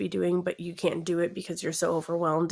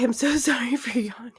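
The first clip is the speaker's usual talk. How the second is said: whisper; 4 semitones higher than usual. Real, not acted. Apologizing for a yawn.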